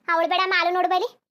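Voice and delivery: loud rant. Acted. Mother rants about the in-law.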